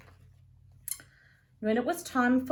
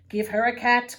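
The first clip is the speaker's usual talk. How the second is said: complaining; 7 dB louder than usual. Acted. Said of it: "complained Mum".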